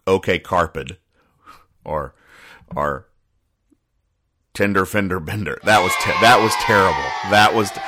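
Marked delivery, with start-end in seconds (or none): 5.6-7.8 groaning at own joke. Real, not acted.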